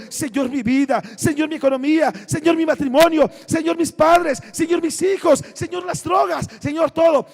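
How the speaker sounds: lightly acted litany of woes, pitch gradually climbing; mock tearful pleading. Preacher voicing Mary arriving in tears, mildly acted pleading. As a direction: plead item by item, building in a mild mock lament. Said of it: "llega llorando".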